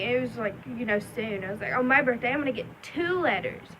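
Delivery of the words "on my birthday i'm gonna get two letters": raised pitch, retold childlike excitement; excited child announcing. Telling little brother about birthday letters, imitating eager excitement. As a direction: imitate a kid proudly sharing big news.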